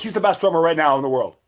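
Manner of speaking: quick, insistent retort, imitating a pushy guy; mildly mock-aggressive, rapid push; aggressive insistence. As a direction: repeat the claim fast, as a retold challenge. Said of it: "like, really aggressive".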